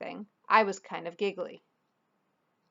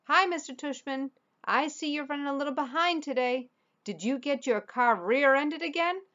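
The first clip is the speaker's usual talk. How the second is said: higher, hammed-up old lady on the loudspeaker; fake old lady voice; 7 semitones higher than usual. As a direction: play a silly old lady paging over the intercom. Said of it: "He was using a fake high old lady voice".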